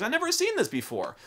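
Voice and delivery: high, astonished gasp of a line; a stunned villager's high voice; amazed NPC. Retold or imitated. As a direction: sound floored by something new. NPC shocked by a gunshot wound.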